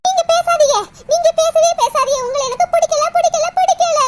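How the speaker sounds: angry outburst. Acted. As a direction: lash out and shut the other person up. Daughter lashes out at sister-in-law. (ஆத்திரமாக வெடித்துப் பேசுதல்)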